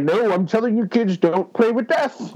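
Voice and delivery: lightly voiced doom-sayer; ominous soothsayer. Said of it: "be the soothsayer and be like".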